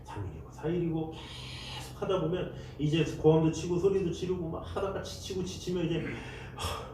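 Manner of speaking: ordinary delivery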